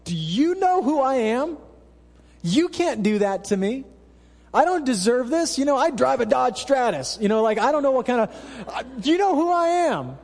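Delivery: high, offended "do you know who I am"; hammed-up entitled outrage; mock indignant. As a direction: play the wounded self-important customer. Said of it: "you well up with this".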